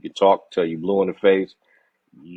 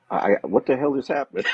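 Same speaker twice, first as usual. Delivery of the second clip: stammering, high-pitched imitated disbelief; mock bewildered shock; 6 semitones higher than usual. Imitating the hero after the car blows up, mock bewildered. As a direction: play dumbfounded, with a laugh creeping in. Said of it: "his face, man. Again, you just look at it".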